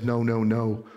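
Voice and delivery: Marty McFirefly. Acted. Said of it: "Marty McFirefly turns around and says".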